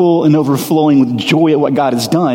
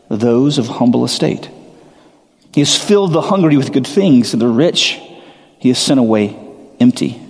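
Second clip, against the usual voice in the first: scripture reading; 2 semitones lower than usual. Shown as a demonstration. Preacher reading Mary's song to the congregation, reverently. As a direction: read the psalm with reverence.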